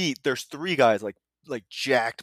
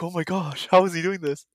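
higher-pitched imitation of a stunned onlooker; mock shock; 5 semitones higher than usual. Bystanders watching the trainer's prank, mock shock. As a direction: act mildly aghast, pitched up. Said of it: "they're, like, shocked".

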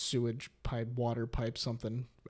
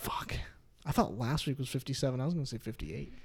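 whispered, under the breath; 7 dB quieter than usual. Real, not acted. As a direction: whisper it to yourself. Muttering the episode mix-up.

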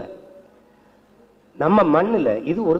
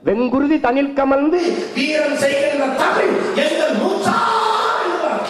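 poem recital; 6 semitones higher than usual. Acted. Orator reciting a Tamil poem to a rally crowd, rousing.

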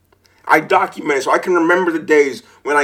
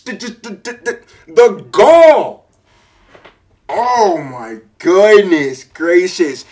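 outraged disbelief; 3 dB louder, slower than usual. Real, not acted. Outraged at seller.

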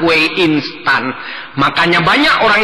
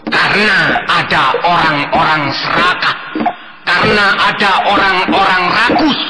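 answering voice; 3 semitones higher than usual. Acted. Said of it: "akan menjawab".

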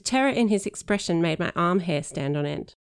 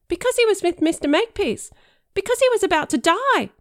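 dramatic reveal; 14 semitones higher, 6 dB louder than usual. Acted. The speaker's dramatic role-play reveal.

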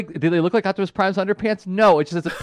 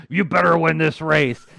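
Miles Mayhem impression; 3 dB louder than usual. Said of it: "bad impersonations of Miles Mayhem".

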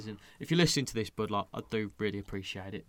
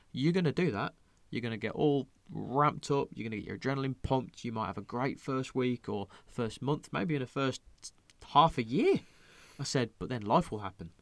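lecturing friend; 2 semitones higher than usual. Retold or imitated. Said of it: "I went".

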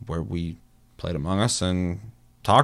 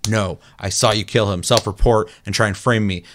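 forceful accusation; 4 dB louder than usual. Shown as a demonstration. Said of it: "if I would have came off that hard".

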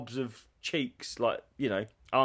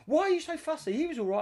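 mimicking ex-wife; faster than usual. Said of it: "She'd be like".

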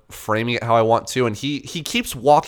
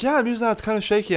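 higher mock voice of the fussy old man; mock old photographer; 10 semitones higher, faster than usual. Mocking the photographer complaining his lens shakes, higher. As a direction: make fun of him. Voicing Ernie.

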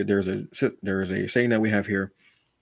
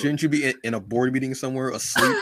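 mock irritated nagging, raised pitch; annoyed Joker; 5 semitones higher than usual. Joker telling his enemy to go sleep, mock annoyed. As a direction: complain with a laugh creeping in. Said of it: "He was legit annoyed".

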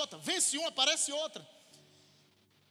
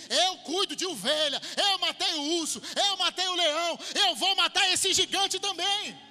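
building defiant David; 4 semitones higher, 5 dB louder than usual. Pretend. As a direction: grow more defiant with each kill. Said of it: "Ele disse". (Davi desafiando o gigante, cada vez mais alto)

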